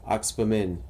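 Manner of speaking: Oxpamin repeated as "OX-puh-min"; chosen pronunciation. Shown as a demonstration. Gamer confirms his pronunciation, Oxpamin as OX-puh-min. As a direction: confirm Oxpamin, starting on OX, P in the middle. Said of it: "I say Oxpamin".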